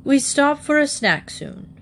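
high-pitched, self-important character voice; little official reading out the schedule; important announcement. A narrator's reading. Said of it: "importantly from the front seat".

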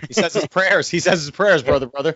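a hint of Hulk Hogan; lightly voiced wrestling promo; wrestler impression. Hulk Hogan catchphrase imitation.

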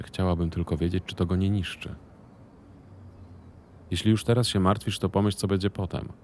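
lightly voiced partner. Marchlik angry in dialogue. (Marchlik mówi głośniej, zadowolony z siebie)

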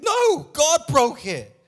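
loud, high, emphatic preacher's cry; full-force preaching. Acted. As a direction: drive the point home to the congregation.

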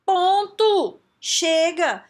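loud, high-pitched exclamations; emphatic "enough" shout; sharp cut-off. Acted. Cuts off the acted excuse.

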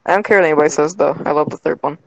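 choppy breaking-up call audio; scrambled voice. Real, not acted. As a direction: voice cutting in and out over a bad connection. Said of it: "You are breaking up so much".

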